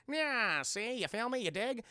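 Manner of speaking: put-on old-time gangster verbal tic; light impression of a movie gangster; Lil Capone. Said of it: "he literally says at the end of every fucking sentence".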